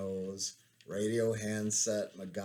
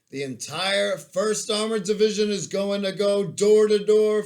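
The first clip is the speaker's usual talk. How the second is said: put-on high, loud nerdy voice with German accent; a giant Urkel barking orders in German accent; 8 semitones higher, 10 dB louder than usual. Sergeant Major briefing the detail, loud high German-accented Urkel. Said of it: "His voice sounded like a giant white Steve Urkel with a German accent".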